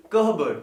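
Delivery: कह बर्ड in two parts, no p; correct pronunciation. Shown as a demonstration. Teacher correcting learners, कह बर्ड with the p silent. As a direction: break कह बर्ड into "kuh... burd". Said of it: "it should be".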